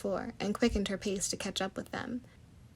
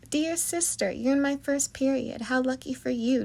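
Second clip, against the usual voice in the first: smug teasing; 4 semitones higher, 4 dB louder than usual. Acted. Brother teasing sister.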